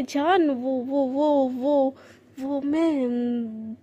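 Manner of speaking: flustered stammer. Acted. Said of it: "ऐसे एकदम घबरा रही होती है".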